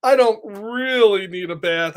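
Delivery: a lightly voiced cheeky pigeon brushing it off; breezy denial, only lightly put on; snarky pigeon voice. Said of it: "And now the pigeon's talking".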